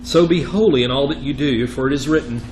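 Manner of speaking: emphatic, measured reading of Scripture. Acted. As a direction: read the verse out firmly to the class. Reads Scripture aloud.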